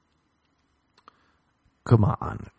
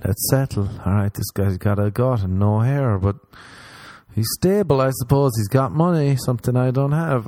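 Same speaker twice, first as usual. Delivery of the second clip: mock rambling woman; 4 semitones higher than usual. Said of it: "they're like".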